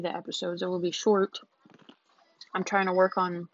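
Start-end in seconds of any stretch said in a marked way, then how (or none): 2.5-3.5 talking while eating; words round a bite of food; mouth full. Real, not acted. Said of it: "sorry, I'm eating".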